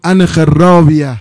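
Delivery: slow, loud command in Hijazi Arabic; deliberate Hijazi Arabic quote; Hijazi dialect. Acted. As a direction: give the order in a stretched-out Hijazi accent. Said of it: "حضرت به لهجه حجازی صحبت کردن".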